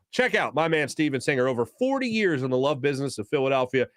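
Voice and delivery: lively radio jeweler plug; ad read. Real, not acted. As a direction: pitch the sponsor like a trusted local host.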